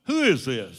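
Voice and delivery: imitating a loud, startled demand; abrupt phone answer. Man woken by a phone call he thinks is a prank, loud and abrupt. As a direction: reenact your curt challenge to a prank caller. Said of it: "Just like that".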